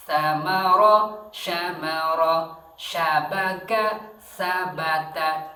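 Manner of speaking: Samara and syamara slow and loud, s against sy; pronunciation drill. Shown as a demonstration. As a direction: contrast the hiss and the hush, slowly. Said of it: "Sa sama sya". (membedakan sa dan sya, lambat)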